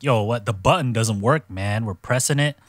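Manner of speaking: imitated indignant griping; mock complaining. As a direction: protest like a contestant with a dead buzzer. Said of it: "over there complaining".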